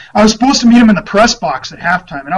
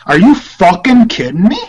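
imitating angry coach; 3 semitones higher, 4 dB louder than usual. Coach yelling at young reporter.

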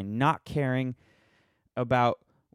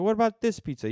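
much higher, mock-eager question; another ad customer; 11 semitones higher, 3 dB louder than usual. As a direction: imitate a commercial customer in high pitch. Acts out second commercial customer.

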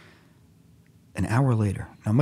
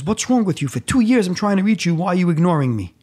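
mock exasperated outburst; 7 semitones higher, 4 dB louder than usual. Mendy's surprised outburst at narrator.

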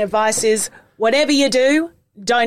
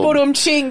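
mock rimshot; 4 semitones higher than usual.

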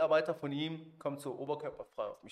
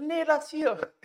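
laughing host; 14 semitones higher, 9 dB louder, slower than usual. Retold or imitated. Host says leave the suitcase.

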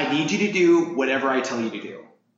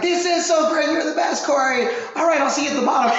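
much higher, bubbly thanks; gushing praise; 10 semitones higher than usual. Retold or imitated. Teammate Amber thanking the coach, higher gushing voice. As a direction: gush at him like he's a hero. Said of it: "And Amber's like".

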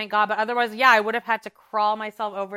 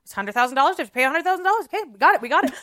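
Mary Cosby impression; 3 semitones higher, 4 dB louder, much faster than usual. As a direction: build to a frantic affirmation. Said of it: "it's very Mary Cosby".

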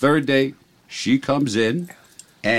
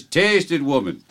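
put-on Irish-accented command, pitched up then down; horrible Irish accent; 3 semitones higher, slower than usual. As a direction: insist in stage-Irish, dropping at the end. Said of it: "your horrible accent that makes the joke".

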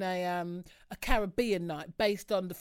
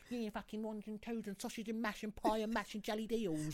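lightly mimicked East London slang patter; East London accent; 8 dB quieter than usual. Mimicking East London brothers who talk like that, mock London accent. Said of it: "those East London brothers that talk like".

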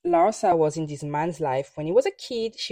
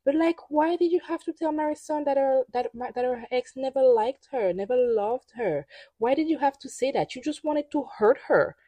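indignant outburst; 8 semitones higher than usual. Real, not acted. Indignant questions at Adriana.

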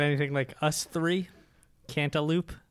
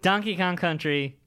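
announcer voice. Retold or imitated. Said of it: "he goes".

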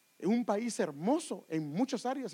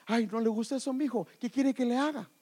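fussing parent; 5 semitones higher, 4 dB louder than usual. Acted. Parent appeasing spoiled child.

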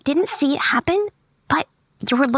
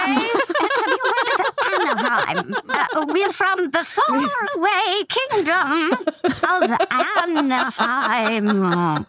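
grandiose boast; 5 semitones higher, slower than usual. Acted. Grand boast about Anaheim.

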